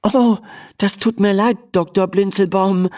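high, mildly flustered apology. A narrator's reading. Emma apologises to the offended little doctor, flustered. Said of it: "stammelt Emma".

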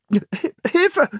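hoher Hilferuf; ängstlich um Hilfe rufen; erschrockener Ruf. A narrator's reading. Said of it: "rief Philipp erschrocken". (Philipp ruft erschrocken)

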